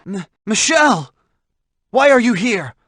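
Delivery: high, startled alarm; shocked. Acted. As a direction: reel at seeing her there. Sister suddenly appears on battlefield.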